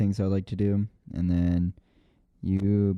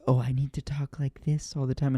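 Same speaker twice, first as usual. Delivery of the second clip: mocking his friend's voice; 5 semitones higher, 3 dB quieter than usual. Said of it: "let's bring it back when you were like".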